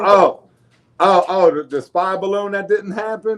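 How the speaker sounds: tongue-in-cheek "oh, oh" of pretend discovery; mock surprise. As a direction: play innocent, as if with a wink. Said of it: "And wink, wink".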